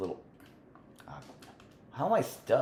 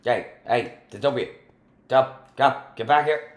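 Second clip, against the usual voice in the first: calling out; 5 semitones higher, 7 dB louder than usual. Real, not acted. Chasing a troublemaker friend.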